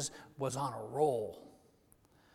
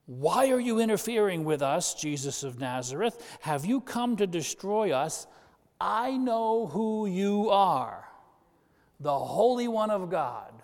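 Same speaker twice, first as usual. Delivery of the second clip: louder, higher reading of a shrieking spirit; spirit crying out; 5 semitones higher, 5 dB louder than usual. Acted. Preacher voicing the evil spirit crying out, louder and higher. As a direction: read it as the demon crying out, half-hammed. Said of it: "the evil spirit cried out".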